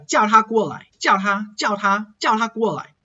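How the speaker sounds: 它 after the vowel of 叫 said with a weak T; weakened ta. Shown as a demonstration. Teacher demonstrating weak pronouns, weakened ta in 叫它. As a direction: connect 叫 smoothly into a softened 它. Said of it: "so it weakens".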